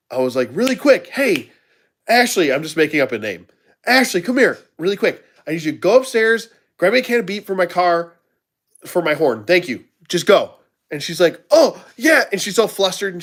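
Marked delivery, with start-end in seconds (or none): 0.5-10.5 urgent boss order. Retold or imitated. Urgent prank order to waitress. 11.5-12.2 flustered waitress. Retold or imitated.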